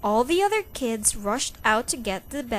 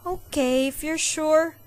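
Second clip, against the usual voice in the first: with a smile; 6 semitones higher, 4 dB louder than usual. A narrator's reading. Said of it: "Mom said with a smile".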